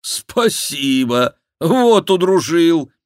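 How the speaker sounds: loud, high, slow sarcastic cry; sarcastic exclamation. Acted. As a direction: throw the thanks back mockingly. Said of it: "воскликнул Шико". (саркастическое восклицание, громко и протяжно)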